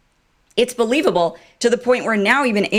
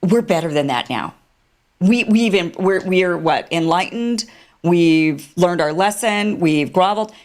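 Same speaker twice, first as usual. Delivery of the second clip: a mocking imitation of the Israelis. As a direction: sneer it like a smug official.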